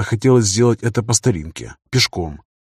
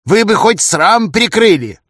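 cheeky friend calling out; 10 semitones higher, 5 dB louder, slower than usual. Acted. Тихий calls through the door.

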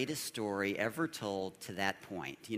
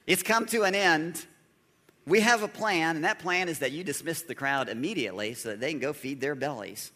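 mock bossy disciples; 5 semitones higher, 7 dB louder than usual. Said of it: "They say".

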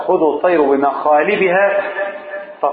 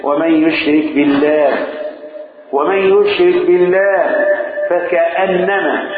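slow, measured chanting of the verse; slow Quranic chant; Quran recitation; slower than usual. Acted. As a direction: intone it like tajweed.

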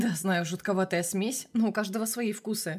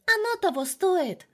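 put-on high, slow childish voice; little girl deciding dessert is worth it, high and slow; 10 semitones higher, 4 dB louder, slower than usual. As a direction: say it like a stubborn small child. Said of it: "пробормотала Ксюша".

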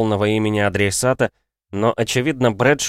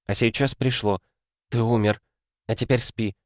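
soothing. Acted. She puts the ghost to sleep.

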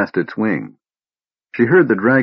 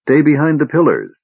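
sharp warning yell, much higher and louder; shout; 7 semitones higher, 3 dB louder than usual. Acted. Laurana warning the knights to get back, shouting. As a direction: yell a warning across the room. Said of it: "she shouted".

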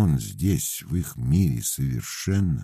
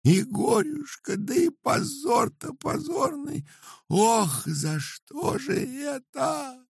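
very high, slow lament; wailing; slower than usual. A narrator's reading. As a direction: wail at the disgrace. Wife continues wailing.

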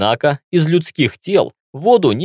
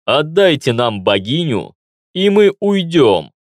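through a gas mask. Acted. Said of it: "продолжил глухой голос".

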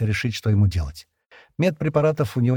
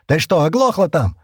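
irritated; 7 semitones higher, 5 dB louder than usual. A narrator's reading. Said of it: "добавил он".

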